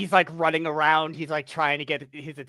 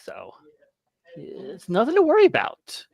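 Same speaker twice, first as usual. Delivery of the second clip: reassuring. Acted. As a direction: talk him down gently. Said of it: "put my hand on his shoulder and goes".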